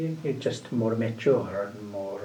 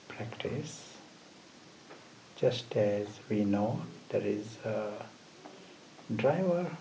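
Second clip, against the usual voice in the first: measured meditation voice with long pauses; guided meditation; 5 dB quieter than usual. Acted. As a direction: guide them gently, phrase by phrase, leaving silences. Leads a short meditation.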